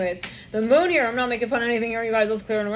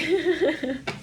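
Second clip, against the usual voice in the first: high, tittering imitation laugh; high-pitched mock snickering; mouse-like laughter; 6 semitones higher than usual. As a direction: giggle away like a pack of mice. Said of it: "mice, like, laughing".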